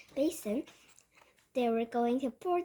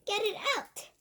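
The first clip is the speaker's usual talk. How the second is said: high-pitched frantic pleading; screaming; 6 semitones higher than usual. A narrator's reading. Cook begs others to free him, screaming. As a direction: cry out high for someone to help. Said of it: "the man was screaming".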